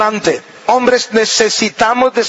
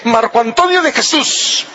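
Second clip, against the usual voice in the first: stern full-name warning. Shown as a demonstration. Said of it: "más seria todavía. Todavía sin gritar".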